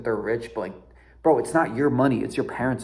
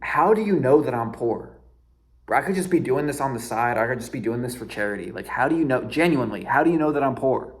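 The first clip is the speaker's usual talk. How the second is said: genuinely baffled. Retold or imitated. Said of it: "I genuinely, I asked her".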